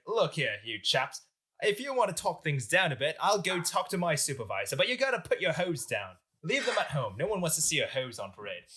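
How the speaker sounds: lightly put-on British colonial officer; British accent. French general ordering rioters to disarm, British accent. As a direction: address the crowd in a mock British accent. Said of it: "he had a British accent".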